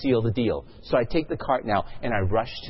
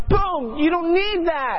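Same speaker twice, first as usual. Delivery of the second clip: much higher and louder, slow, commanding boom; booming divine voice; 6 dB louder, slower than usual. Retold or imitated. Holy Spirit overpowering the shopper at checkout, booming slow command. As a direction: pounce on the words like a voice from heaven. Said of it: "the Holy Spirit just pounces on me".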